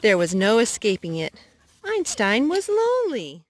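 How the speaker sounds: gentle storybook narration; reading to children. A narrator's reading. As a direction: read it like a bedtime story. Reads picture book to child.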